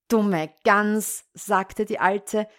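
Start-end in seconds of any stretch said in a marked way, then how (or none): 0.1-1.2 loud scornful insult; scornful witch. Acted. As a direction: spit the insult out.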